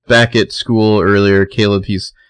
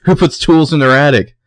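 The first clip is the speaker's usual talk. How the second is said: higher-pitched mock incredulity; incredulous challenge; 7 semitones higher than usual. Girl challenging an intruder in her attic, incredulous. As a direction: fire the questions back in disbelief.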